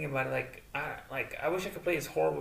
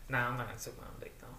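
whispered aside; 3 semitones lower, 5 dB quieter, faster than usual. Real, not acted. Joking aside, quietly.

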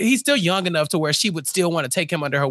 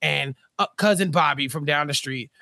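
mock solemn dad; 6 semitones lower than usual. Dad voiced, lower, deep voice.

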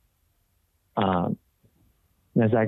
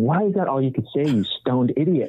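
self-scolding; 3 semitones higher than usual. Retold or imitated. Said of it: "still frustrated with myself".

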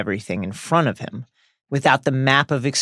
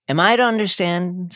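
slowly; 5 semitones higher than usual. Acted. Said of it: "said Phineas Nigella slowly".

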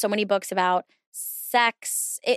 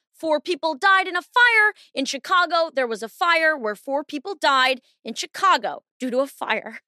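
newscaster voice; 6 semitones higher than usual. Pretend. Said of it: "They, like, circle".

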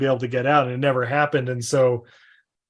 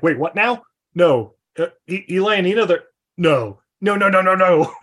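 louder stunned denials; retold disbelief; 3 semitones higher, 4 dB louder than usual. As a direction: protest that it can't be true. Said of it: "I'm like".

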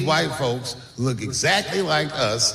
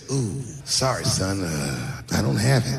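sheepish dad; 8 semitones lower, slower than usual. Retold or imitated. Dad voiced in story.

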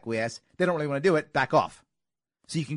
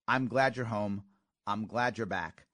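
sincere welcome home; 6 semitones lower, 3 dB quieter than usual. Shown as a demonstration. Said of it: "instead say".

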